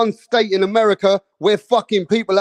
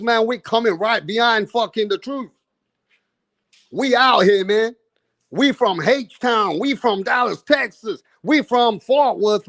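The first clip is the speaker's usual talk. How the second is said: a hammed-up Texan accent, pitched higher; a British vlogger playing a rowdy Texan; imitating a Texan; 3 semitones higher than usual. A British streamer's mock Texan accent, hyping up the Dallas fans. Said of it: "I don't know how the Texans talk".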